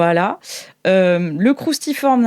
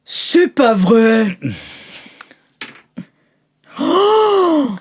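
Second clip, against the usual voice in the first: amazed gasp; 3 semitones higher, much slower than usual. Acted. Character amazed by news.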